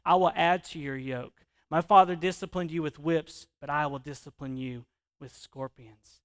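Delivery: loud threat, lightly mob-boss; mafia feel. Acted. Preacher reading the king's threat, loud with a hint of mafia. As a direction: lay down the threat with a touch of mobster. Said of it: "It kinda has that mafia feel".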